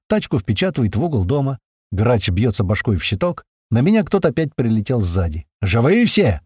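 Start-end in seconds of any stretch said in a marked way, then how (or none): 5.6-6.4 adrenaline yell. Acted. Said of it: "ору на адреналине".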